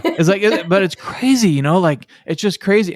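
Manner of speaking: a touch of giggling disbelief; amused. Real, not acted. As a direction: shake your head, still laughing. Still amused after the story.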